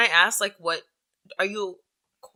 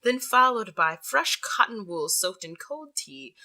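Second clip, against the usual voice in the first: sexy voice. Pretend. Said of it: "I'll read this one in a sexy voice".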